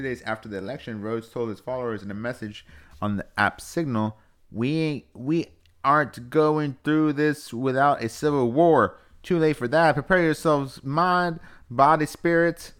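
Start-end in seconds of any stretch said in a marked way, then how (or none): 4.5-12.7 high, loud, slow Southern proclamation; Southern accent. Acted. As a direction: read it like a rallying cry in a raised Southern accent. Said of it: "I was just doing Southern".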